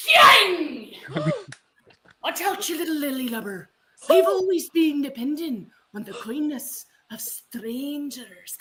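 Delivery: piratey voice with a Scottish tinge, drawn out. Asked to deliver a line professionally piratey, the performer uses a professional pirate voice. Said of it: "I need you to do it professionally piratey".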